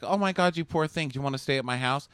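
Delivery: high, gushing pity; gushing mock sympathy. Friend to rejected teenager, gushing sympathy.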